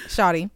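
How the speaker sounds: "Shawty" as SHAH-tee, said plainly; Shawty said on request. Shown as a demonstration. Host trying the Atlanta word on request, careful slang pronunciation. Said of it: "Say it".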